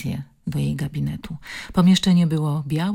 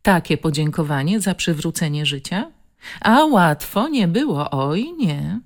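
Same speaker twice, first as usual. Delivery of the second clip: reproachful nurse; 3 dB louder than usual. Acted. Nurse reproaching the patient who wanted to die, mildly scolding. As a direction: chide her for her ingratitude.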